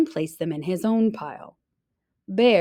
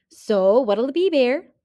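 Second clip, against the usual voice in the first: Hare louder, pushing for an answer; pressing hare; 4 semitones higher, 6 dB louder than usual. Acted. Hare pressing bear to choose, coaxing. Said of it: "asked Hare".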